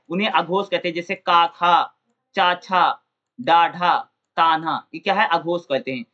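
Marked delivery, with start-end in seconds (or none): 1.2-4.8 का, खा, छा sounded out one by one; teacher demo of voiceless का and खा; unvoiced consonant drills. Shown as a demonstration. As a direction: say का, खा, चा as separate clear syllables. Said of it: "मुख में आने वाली वायु कोई कंपन नहीं होता है".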